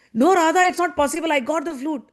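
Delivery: high, insistent acted denial; worked-up mock insistence; disbelieving protest. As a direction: protest urgently that it cannot be. Acting Krishna's disbelieving protest.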